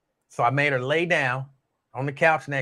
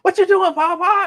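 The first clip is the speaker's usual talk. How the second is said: put-on much higher little-girl voice, puzzled question; imitating a four-year-old girl; 8 dB louder than usual. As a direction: squeak it out like his small granddaughter. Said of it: "And she was".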